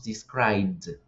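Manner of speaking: "described" said "dis-kraibd", low and falling; vowel dropped. Shown as a demonstration. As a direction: run B straight into D in "described". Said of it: "la D se come la vocal".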